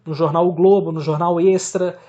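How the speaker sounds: ordinary talk, nothing marked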